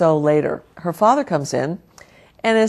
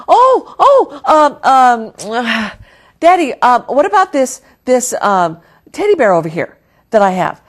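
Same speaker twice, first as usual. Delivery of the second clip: put-on high, loud, near-crying child voice; a child fighting tears to keep her necklace; distressed little girl; 5 semitones higher, 5 dB louder than usual. Jenny tearfully begging her daddy to take the teddy bear, high near-crying child voice.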